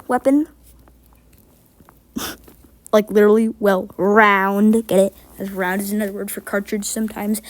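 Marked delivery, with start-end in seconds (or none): 2.9-7.4 short of breath, pushing the words out. Real, not acted. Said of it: "I'm out of breath".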